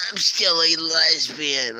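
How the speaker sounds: drawn-out mock yell; imitated yelling. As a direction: imitate her yelling it, stretching the words. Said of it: "She's yelling".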